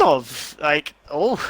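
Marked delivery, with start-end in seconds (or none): 1.1-1.4 cracking voice on oh. Real, not acted. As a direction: voice breaks on a rising oh. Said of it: "what was that voice crack?".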